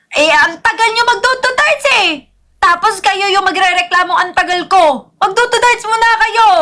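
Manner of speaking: high-pitched nagging protest; indignant complaint. Real, not acted. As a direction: scold them with a rising, exasperated pitch. Scolding slow viewers who complain.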